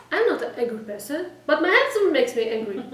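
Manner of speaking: loud, mock-indignant protest; upset wife. Wife complains to the rabbi about her husband, mock upset. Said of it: "She's so upset at her husband".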